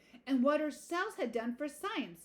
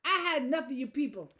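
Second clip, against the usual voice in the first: loud, fed-up snap; snapped; 3 semitones higher, 5 dB louder than usual. A narrator's reading. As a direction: dismiss the caller angrily and loudly. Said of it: "he snapped".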